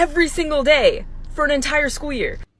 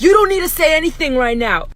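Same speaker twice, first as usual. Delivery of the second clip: mild mock yell; 4 semitones higher, 6 dB louder than usual. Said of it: "She was screaming at this kid".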